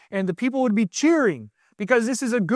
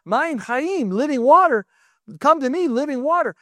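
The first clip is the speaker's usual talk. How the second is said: higher-pitched retold call; proclaiming; 5 semitones higher than usual. Yeshua inviting the crowd at the feast, proclaiming. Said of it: "So when Yeshua said".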